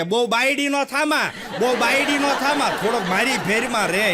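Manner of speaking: laughing, wheedle the son to stay close; coaxing mother. Retold or imitated. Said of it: "આખો tone ફરી જાય".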